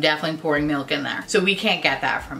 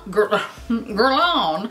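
slow, drawn-out diva warble on the name; like a famous diva singer; 3 semitones higher, much slower than usual. Acted. Vlogger fumbling a brand name, drawn-out diva-like voice. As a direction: stretch the word like a singing diva. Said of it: "why did that sound like, kinda like her"

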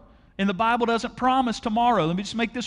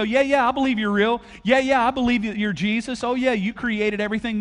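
higher, breezy mock agreement; shallow believer; 4 semitones higher than usual. Pastor mocking lip-service faith, higher and breezy. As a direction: toss off a careless yes. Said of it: "it doesn't mean for you to go".

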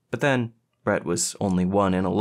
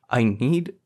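higher, choked-off words; squeaky, strangled; 4 semitones higher, 4 dB louder than usual. A narrator's reading. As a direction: let the voice rise and catch before halting. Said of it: "his voice squeaked and strangled".

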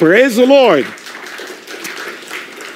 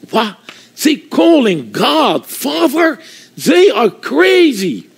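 mocking disbelief; 5 semitones higher, slower than usual. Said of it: "I start laughing".

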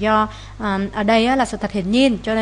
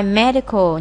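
"medical" stressed on MED; first-syllable stress; slower than usual. Shown as a demonstration. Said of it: "nhấn âm một".

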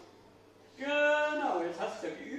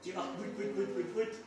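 washing machine noise; 4 semitones lower, 4 dB quieter than usual. Retold or imitated. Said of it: "Wie macht eine alte Waschmaschine?".

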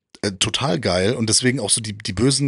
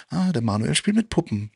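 mild mock teasing, pitched up; spöttisches Necken nachgeahmt; 4 semitones higher than usual. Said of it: "konnte mir auch immer anhören". (leicht spöttisch nachgeäfftes Hänseln)

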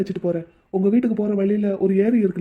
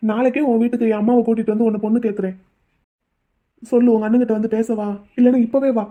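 urgent insistence. Acted. He insists on marrying her.

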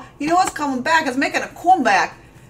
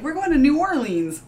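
put-on northern accent; 2 semitones higher than usual. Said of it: "all my friends that are going".

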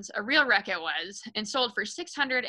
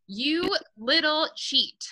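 high, slow, spat-out accusation; an outraged father yelling at his daughter; furious shout; 6 semitones higher, much slower than usual. A narrator's reading. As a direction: bellow it at the little girl. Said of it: "the father suddenly shouted".

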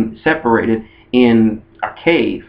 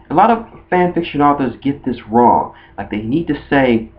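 usual speaking voice

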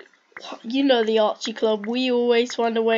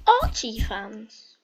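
mock toxic taunt; much slower than usual. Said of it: "a toxic red team comes up and says".

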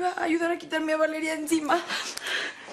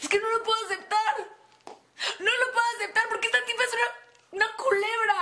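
bitter outburst; 4 semitones higher than usual. Acted. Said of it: "te pareces a Alma Rey cuando hablas así".

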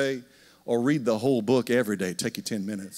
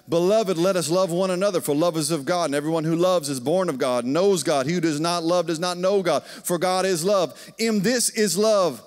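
scripture reading; 2 semitones higher than usual. Acted. Reads scripture.

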